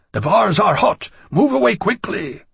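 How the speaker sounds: high shrieking warning; high panicked creature. A narrator's reading. Creatures shout at fire.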